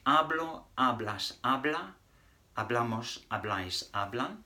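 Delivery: "Hablo, hablas, habla" said clearly for repeating; teacher model. Shown as a demonstration. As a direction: model each form for the class. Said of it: "run through that once more".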